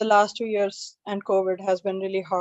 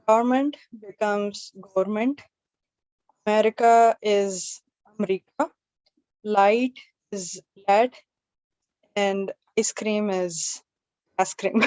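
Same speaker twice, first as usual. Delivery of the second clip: put-on Pakistani accent. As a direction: gently mimic a Pakistani TikTok star's accent. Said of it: "how different English words sound in Pakistani accent".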